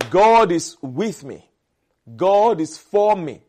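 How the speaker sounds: slow, emphatic proclamation; bold, confident declaration. Real, not acted. Preacher affirming God is for him, boldly. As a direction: declare it with full conviction, word by word. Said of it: "I can boldly say that".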